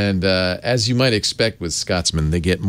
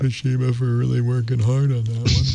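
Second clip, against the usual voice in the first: sarcastic; 4 semitones higher than usual. Pretend. Sarcastic mock thanks to Toshiba.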